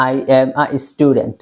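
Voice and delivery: slow, word by word I am a student; slow model sentence. Shown as a demonstration. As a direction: dictate it slowly for learners. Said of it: "এটা একটা structure". (ধীরে ধীরে বলা বাক্য)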